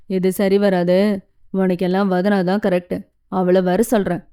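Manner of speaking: mild playful mock; a touch of joking ribbing. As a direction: tease her gently to get a reaction. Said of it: "என்றான் கேலியாக".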